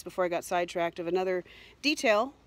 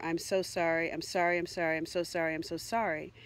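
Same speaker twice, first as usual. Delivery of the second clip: apologetic; 3 semitones lower than usual. Retold or imitated. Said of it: "I'm apologizing over and over".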